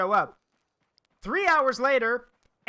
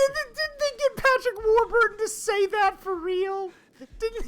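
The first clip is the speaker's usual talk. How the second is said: excited; 13 semitones higher, 4 dB louder than usual. Real, not acted. Excited disbelief at voice line.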